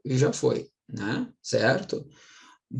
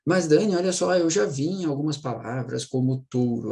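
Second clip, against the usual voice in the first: objecting student; 3 semitones higher than usual. Retold or imitated. Teacher voicing a student's objection about touro. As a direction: lightly play the pupil who objects. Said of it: "voicing a student's objection".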